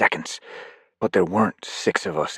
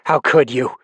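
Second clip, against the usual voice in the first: disappointed; 5 semitones higher, 4 dB louder than usual. Acted. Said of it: "her disappointed voice".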